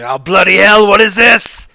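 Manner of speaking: loud startled exclamation; shouting. Pretend. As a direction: blurt it out loud in shock. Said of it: "I'd probably just shout".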